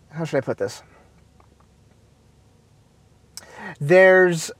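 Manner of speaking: halting, tripping over every phrase; searching for the diplomatic word; stumbling over words. Real, not acted. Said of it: "Stumbling over my words".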